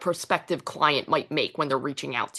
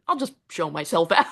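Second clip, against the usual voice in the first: laughing through it. Retold or imitated. Actor retelling a failed audition, laughing. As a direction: laugh while bowing out in shame. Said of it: "I said".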